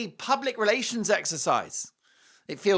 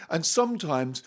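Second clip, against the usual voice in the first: mock American accent; 3 semitones lower than usual. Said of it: "Trying to do an American accent".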